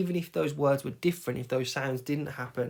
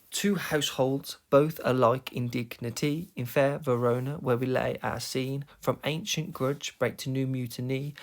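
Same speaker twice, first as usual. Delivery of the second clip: "Two households, both alike in dignity" in steady weak-strong beats; rhythmic verse reading. Shown as a demonstration. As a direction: recite to show the rhythm, every second syllable stressed. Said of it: "you don't have to speak it like this".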